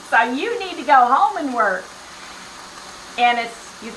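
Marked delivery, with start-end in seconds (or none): 0.1-1.8 lightly voiced Tennessee boss protesting. Quoting her boss from Tennessee, light Tennessee accent. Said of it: "he's from Tennessee, so he's like".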